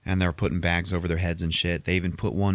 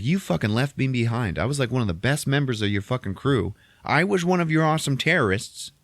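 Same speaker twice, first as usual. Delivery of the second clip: raised-pitch mock grievance; indignant acted reproach; 6 semitones higher than usual. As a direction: accuse him, playing the wronged recruit. Jin's acted reproach to Saw.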